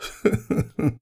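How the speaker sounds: breathy, quiet fond chuckle; soft loving laugh. Acted. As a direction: laugh softly, full of affection. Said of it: "Rainbow Dash laughed, soft and loving".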